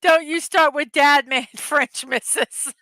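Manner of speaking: amused telling-off that ends in laughs; teasing warning through laughter; laughing mock scolding. Real, not acted. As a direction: scold playfully, breaking into laughter.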